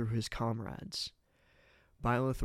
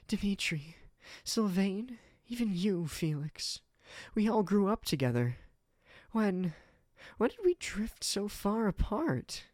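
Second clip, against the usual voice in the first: put-on higher young woman's voice, aching; a raised, sorrowful female voice; Ingrid, hurt; 9 semitones higher than usual. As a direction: voice Ingrid as she pleads with old friends.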